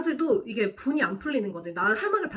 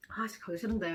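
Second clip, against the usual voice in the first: annoyed mutter; 6 dB quieter than usual. Retold or imitated. Reluctant to sit by rival.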